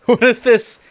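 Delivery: high, loud laughing question; laughing disbelief. Real, not acted. Laughing at the pose.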